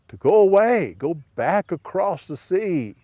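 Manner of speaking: high, loud command; villagers' demand. Shown as a demonstration. Villagers telling Jesus to leave, loud and high. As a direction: send him off firmly.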